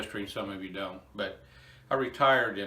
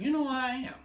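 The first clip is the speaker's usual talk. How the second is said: emotional; 3 dB louder, much faster than usual. Real, not acted. Realizing he is blessed, emotion welling up. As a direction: voice rising high, close to tears. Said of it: "I'm a little emotional".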